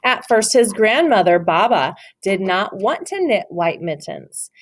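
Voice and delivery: story narration. Acted. Teacher reads The Mitten to her class, storybook voice. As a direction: read it like a picture book for little ones. Reads picture book aloud.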